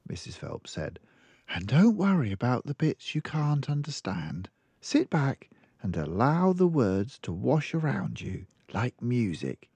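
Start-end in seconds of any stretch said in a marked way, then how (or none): 1.5-9.7 lightly voiced, gently encouraging; reassuring librarian. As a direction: soothe the child's worry.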